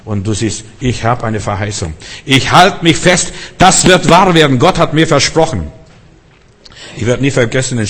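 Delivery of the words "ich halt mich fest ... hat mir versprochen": fervent declaration. Acted. Preacher voices a clinging hope.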